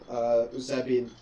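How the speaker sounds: talking through hiccups; hiccuping mid-sentence. Real, not acted. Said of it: "got the hiccups".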